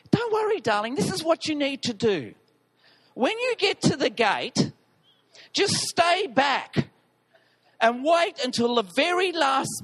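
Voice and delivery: lightly voiced wife saying don't worry; Helen's coaxing voice. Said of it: "then I hear Helen's voice".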